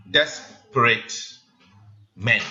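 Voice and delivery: desperate said slowly, each syllable pulled apart; syllable count. Shown as a demonstration. Teacher counts syllables of desperate for class, slowly. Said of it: "count with me".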